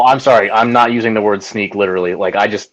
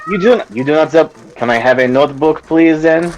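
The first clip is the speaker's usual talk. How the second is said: put-on French accent; 2 semitones higher than usual.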